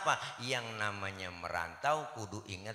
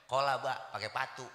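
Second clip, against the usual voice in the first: Bekasi clipped speech; 3 dB louder than usual. Retold or imitated. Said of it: "Orang Bekasi begitu".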